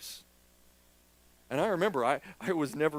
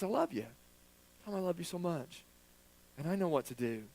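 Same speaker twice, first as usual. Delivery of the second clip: tender words as God; 7 dB quieter than usual. Retold or imitated. Voicing God's tender words.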